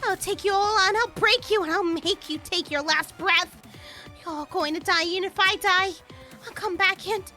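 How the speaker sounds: threatening rant. Acted. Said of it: "still screamed bloody murder".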